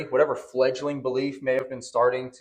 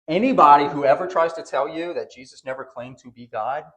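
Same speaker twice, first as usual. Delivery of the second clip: preaching force; 6 dB louder than usual. Real, not acted. Pastor rebukes doubters from pulpit.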